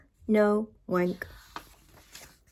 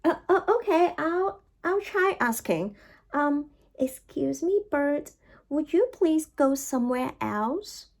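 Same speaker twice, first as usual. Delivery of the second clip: nervous; 4 semitones higher than usual. Acted. Elephant nervously asks bird.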